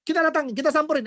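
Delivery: high, loud, ready to confront; angry retort. Retold or imitated. Preacher acting a church lady ready to confront the gossip, angry and loud. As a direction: demand where the gossiper is. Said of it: "jangan bilang gini".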